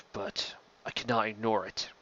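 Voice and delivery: hushed confession; a guilty whisper to the captain. Acted. Nonvar confesses the order.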